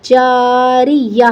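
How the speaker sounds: "جاریہ" slow, closing on a breathed h; waqf with ha. Shown as a demonstration. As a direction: stop on "جاریہ" with the round ta turned into an audible h. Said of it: "گول تا کا ہا بن جائے گا". ("جاریہ" کے آخر میں ہا پر وقف)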